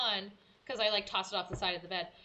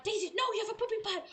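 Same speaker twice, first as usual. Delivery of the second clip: hushed panic; 11 semitones higher, much faster than usual. Retold or imitated. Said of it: "panic quietly 'cause Nate's asleep".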